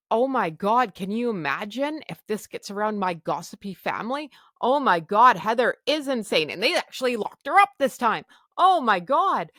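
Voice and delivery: loud, panicky Oh my God; retold panic. Panicking about gossipy family.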